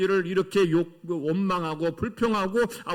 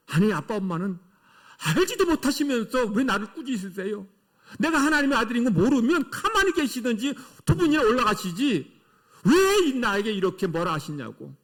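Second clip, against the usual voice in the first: imitated child's indignant protest, mostly raised pitch; defiant back-talk; 3 semitones higher than usual. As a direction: talk back to mum and dad like a mock-rebellious kid. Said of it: "이렇게 반항하고 대꾸하고 반발할 수".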